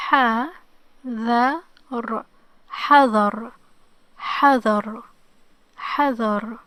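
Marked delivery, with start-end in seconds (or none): 0.1-2.2 very slow, letter by letter, louder; sounded out slowly. Shown as a demonstration. Teacher helping learners try to read it, sounded out slowly. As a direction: break the word into its separate sounds. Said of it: "let's try to read it".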